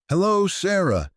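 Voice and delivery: very high, sing-song creature greeting; creepy greeting. Acted. Gaunt creature greets Sarah, very high and sweet. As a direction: greet her sweetly like a monster. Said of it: "it said in".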